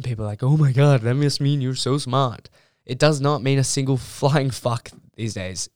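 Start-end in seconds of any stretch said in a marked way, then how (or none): 0.4-2.5 louder, gushing imitation on the exclamation; mock impressed. Student mimicking people hearing her university's name, mock impressed. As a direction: imitate someone easily impressed.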